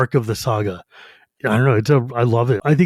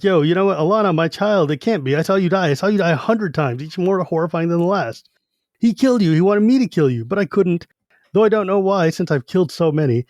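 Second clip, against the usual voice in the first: haunted Lorak; 3 semitones higher than usual. Retold or imitated. Lorak raving from nightmare.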